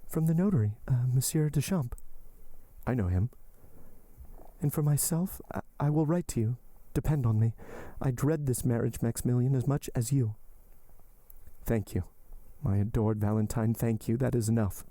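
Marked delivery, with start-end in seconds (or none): 0.1-10.3 much higher, pleading heroine voice; desperate young woman. Acted. Heroine entreating her lover to live, high and pleading. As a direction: lift the voice and entreat him.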